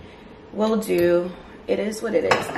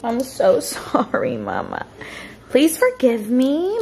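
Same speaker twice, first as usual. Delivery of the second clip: pleading to a pet; 5 semitones higher, slower than usual. Real, not acted. Apologising to the dog.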